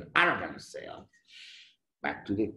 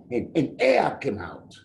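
usual speaking voice

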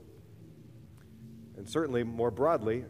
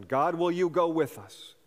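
questioning prayer; 3 semitones higher than usual. Retold or imitated. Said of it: "form it in a question".

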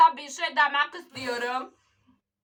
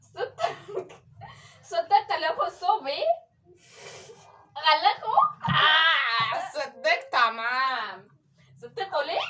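gibberish foreign speech. Acted. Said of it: "Türkçeyi bilmiyor".

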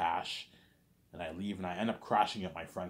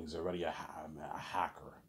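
hushed aside; 3 semitones lower, 5 dB quieter than usual. Retold or imitated. Smith whispering suspicion aside.

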